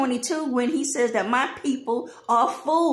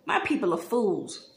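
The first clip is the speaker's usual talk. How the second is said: a touch lower and softer, calm verdict on "My people are fools"; God's voice, imagined; 3 semitones lower, 3 dB quieter than usual. Retold or imitated. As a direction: say "My people are fools" low and quiet, as God leaning back. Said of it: "God is sitting back like".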